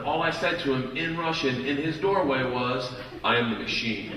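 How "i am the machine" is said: low, soft, meek little statement; panicked admission. Retold or imitated. Frat boy freezing before a Russian gangster, panicked and quiet. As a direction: quietly offer it, as if stunned. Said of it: "I panicked".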